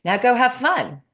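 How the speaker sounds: high bright laugh through the words, retelling the coach; smiling, laughing. Retold or imitated. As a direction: mimic the coach grinning as he sends her off. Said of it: "he smiles and he goes".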